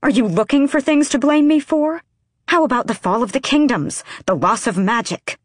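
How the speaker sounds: high, loud furious outburst. A narrator's reading. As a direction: hurl the accusation, high and loud. Furious counterattack in argument.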